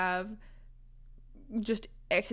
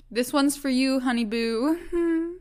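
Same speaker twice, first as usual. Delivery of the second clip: playful dedication; 3 semitones higher, 5 dB louder, slower than usual. Real, not acted. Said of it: "shout out to Sylvia".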